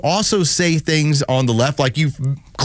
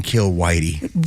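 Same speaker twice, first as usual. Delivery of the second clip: mock stutter; 9 semitones lower, much slower than usual. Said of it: "He's got a stutter".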